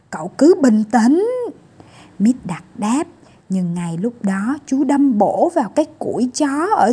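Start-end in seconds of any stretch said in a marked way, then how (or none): 0.1-1.3 mock calm reply. Mít Đặc replies while driving.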